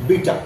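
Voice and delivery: "বিটার" ending in an open ah, no R; British-style "বিটার", said bee-tah; silent final R. Shown as a demonstration. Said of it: "রয়ের উচ্চারণ হবে না".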